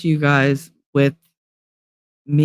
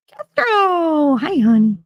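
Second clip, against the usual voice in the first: cheerful greeting; 13 semitones higher, slower than usual. Real, not acted. Greeting a viewer by name.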